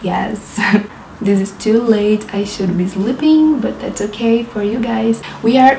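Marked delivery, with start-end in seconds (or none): none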